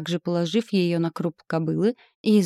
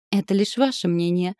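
usual speaking voice

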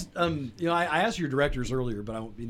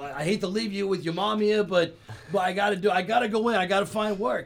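put-on New York accent; 5 semitones higher than usual. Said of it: "throw in that kind of New York sort of accent".

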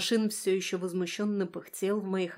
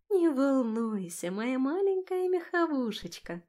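slow, much higher doting coo; tender cooing; 6 semitones higher, slower than usual. A narrator's reading. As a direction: coo to a pet. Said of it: "ласково погладила".

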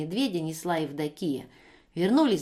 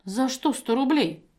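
astonished; 5 semitones higher, 4 dB louder than usual. Acted. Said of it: "изумилась Евдокия".

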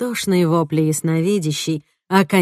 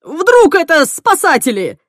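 loud and high; a loud, high shouted question; 11 semitones higher, 7 dB louder than usual. Acted. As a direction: shout the hope over the din. Henry keeps shouting.

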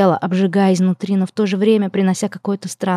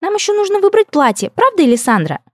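pouting elf princess; 12 semitones higher than usual. Acted. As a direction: whine it high like a spoiled princess. Elf princess keeps chattering.

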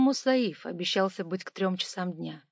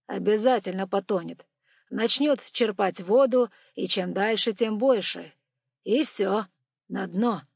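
cigar in mouth; 7 dB louder than usual. Acted. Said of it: "не вынимая сигары из зубов".

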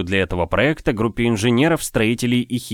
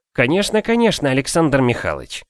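eager agreement; 5 semitones higher than usual. Acted. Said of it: "всплеснул руками Горегляд".

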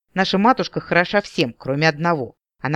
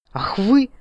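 outraged cry; 8 semitones higher than usual. Acted. Sister outraged at brother's plot.

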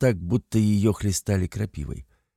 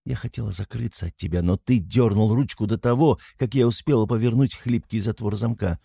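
plain reading voice

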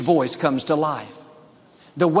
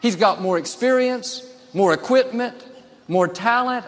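higher-pitched mock protest; imagined doubting David; 6 semitones higher than usual. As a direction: act out someone listing excuses before a giant. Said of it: "He could have easily gone around saying".

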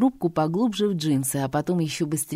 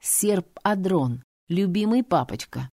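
wry smirk. Acted. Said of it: "усмехнулся и, криво улыбнувшись".

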